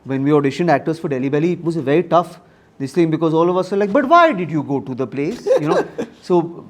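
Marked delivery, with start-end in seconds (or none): 3.9-5.4 sing-songy Indian English. Retold or imitated. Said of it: "we become a little sing-songy".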